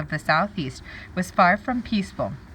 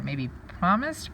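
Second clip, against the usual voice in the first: trying a word; 3 dB quieter, slower than usual. Shown as a demonstration. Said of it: "what word could go there".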